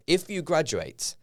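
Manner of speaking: slow, pointed caveat leaning on "If"; stress on IF. Real, not acted. Pointed correction of previous words.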